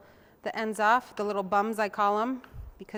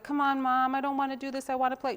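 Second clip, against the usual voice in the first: put-on whiny kid; 5 semitones higher, 3 dB louder than usual. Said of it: "And I'd be like".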